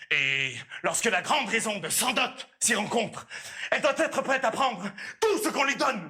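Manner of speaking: hammed-up emphatic lecture, pitch jumping up; carried away. Suitor scolds Élise for the father's ears, carried away. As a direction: lecture her with rising, forceful emphasis. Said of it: "si je m'emporte un peu".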